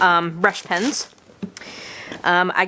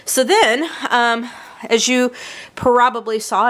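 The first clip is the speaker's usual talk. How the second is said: out of breath; 3 semitones higher than usual. Real, not acted. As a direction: push through breathlessness. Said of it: "I'm a little bit out of breath".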